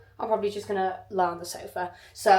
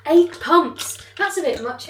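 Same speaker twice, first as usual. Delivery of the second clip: high, loud exclamation; incredulous; 8 semitones higher, 8 dB louder than usual. Real, not acted. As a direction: exclaim at the amount in disbelief. Taste testing the eight pumps.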